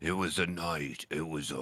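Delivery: spooky storytelling voice. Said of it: "but do it in the voice".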